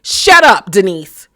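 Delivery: shouted shut up. Acted. Host telling Denise to shut up, yelled. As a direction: yell it at the screen.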